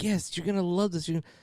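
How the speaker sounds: mock eager son. Son promising dad he'll love it, eager. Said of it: "He's like".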